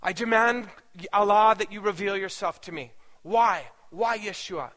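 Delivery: loud insistent demand to be answered; demanding outburst. Retold or imitated. Aishin demands that Allah reveal himself, with a loud insistent plea. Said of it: "continued this diatribe".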